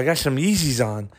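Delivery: put-on lightly lisped kid voice; lisp imitation. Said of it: "lisp in the back of his mouth".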